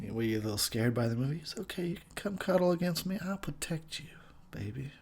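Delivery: smooth, quiet mock seducer; a hint of a lounge lizard crooning; suave voice. To his female listeners, a soft mock-suave come-on. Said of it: "That's my suave voice".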